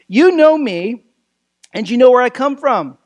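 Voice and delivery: proclaiming. Retold or imitated. Jesus teaching the crowd in the temple, proclaiming. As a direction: proclaim it firmly, pausing between phrases. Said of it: "he proclaims as he taught in the temple".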